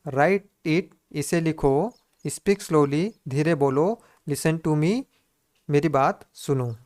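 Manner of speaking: brisk, quick recap of the phrase; quick revision read. Shown as a demonstration. Teacher rushing through a super-fast revision, brisk. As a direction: rattle it off in a brisk run-through. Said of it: "super fast".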